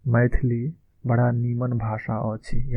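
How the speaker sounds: slow, careful Maithili model line; slow model phrase. Shown as a demonstration. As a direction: say it slowly, like a teacher modelling. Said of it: "इसको मैथिली में हम क्या बोलेंगे".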